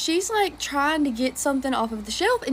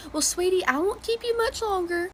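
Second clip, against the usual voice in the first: sweet granny; 5 semitones higher than usual. Retold or imitated. Old lady wrapping up.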